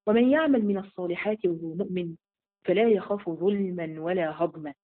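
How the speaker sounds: slow, measured chant-like recitation; the preacher recites the verse; Quranic recitation. Acted. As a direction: recite it slowly and solemnly.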